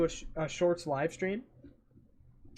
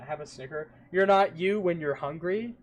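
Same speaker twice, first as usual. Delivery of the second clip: ad read. Acted. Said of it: "you just ad read me".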